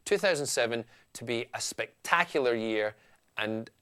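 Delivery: light Scottish accent, easy and chatty. Shown as a demonstration. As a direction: talk it through in a mild Scottish accent. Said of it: "here I am now talking Phil Scott to you".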